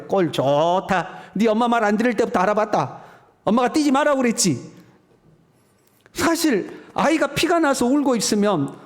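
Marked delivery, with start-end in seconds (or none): 0.1-4.7 a nagging mom gloating at the fall; sarcastic mother. Retold or imitated. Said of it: "그래서 엄마들은 뭐라고 그래?".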